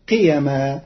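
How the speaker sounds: قيما said short as qiyama without the long a; قيما with the alif dropped. Shown as a demonstration. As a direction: clip the vowel in قيما. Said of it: "بحذف الألف".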